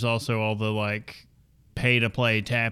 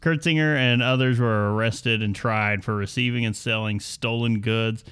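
scripted story read with lively swooping emphasis; news read. Acted. Host reading the bourbon theft story to co-hosts, news read. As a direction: read it out like a podcast news segment.

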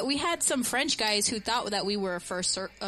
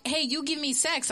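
put-on French accent; 5 semitones higher than usual. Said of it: "throw the accent out there".

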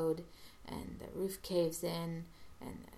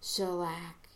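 mildly raised voice, drawn out; a slow, restrained imitation of a yell; retold yell; 4 dB louder, slower than usual. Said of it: "yells this as he goes".

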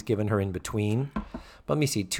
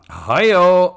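loud, high "hey-o"; big, drawn-out joke heckle; rimshot whoop; 6 semitones higher, 9 dB louder than usual. Real, not acted. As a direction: call it out like a punchline topper. Whoops at a co-host's racy joke.

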